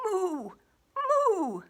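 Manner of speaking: playful cow moo. Acted. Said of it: "All she heard was".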